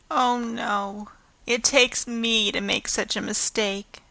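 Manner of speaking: soft, downcast and sorry; forlorn. Acted. Anne, ashamed before Missus Allen, speaks forlornly. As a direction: say it as if all is lost. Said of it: "said Anne forlornly".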